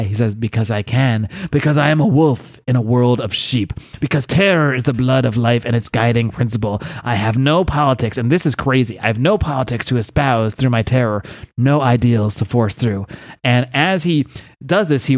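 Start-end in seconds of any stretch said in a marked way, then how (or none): 0.3-8.2 lightly voiced villain monologue; Kaizen Gamora. Villain explains his terror to the UN, coldly grandiose. 9.0-13.1 lightly voiced villain monologue; Kaizen Gamora. Villain explains his terror to the UN, coldly grandiose.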